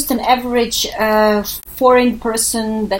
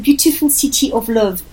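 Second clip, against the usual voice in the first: French accent. Shown as a demonstration. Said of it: "let me say it with a French accent".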